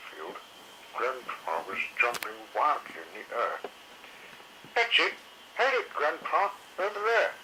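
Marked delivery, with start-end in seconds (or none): 4.7-7.3 higher, louder cheering; young dinosaur yelling encouragement; excited yell. A narrator's reading. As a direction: cheer Grandpa on from the sidelines. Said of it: "yelled Moss Chops excitedly".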